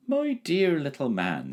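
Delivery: slow, grave address; solemn. A narrator's reading. Dragon solemnly addressing the boy, slow. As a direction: speak with slow gravity. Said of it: "said the dragon solemnly".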